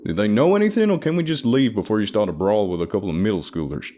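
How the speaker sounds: high, loud anxious man; high-pitched partner voice. A narrator's reading. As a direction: pitch it up and nag.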